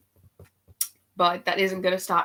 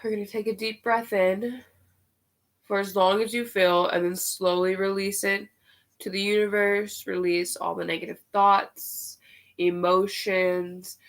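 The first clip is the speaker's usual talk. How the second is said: guided meditation. Acted. Leads breathing meditation.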